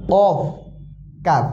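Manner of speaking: কফ thick and deep in the throat, কাফ light; drilled Arabic letters. Shown as a demonstration. Teacher drills two look-alike letters for students. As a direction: contrast কফ and কাফ slowly. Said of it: "এই দুইটি হরফের উচ্চারণ আমরা একটু খেয়াল করব".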